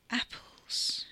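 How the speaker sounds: whispered single word; murmured. Acted. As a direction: murmur it, half to herself. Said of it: "she murmured".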